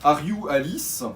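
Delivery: slow, hammed-up bad English accent; rotten English accent. Host trying to match his co-host's accent, rotten English. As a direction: drag it out in awful French-flavoured English, ending on a rise. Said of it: "j'ai fait un accent tout pourri".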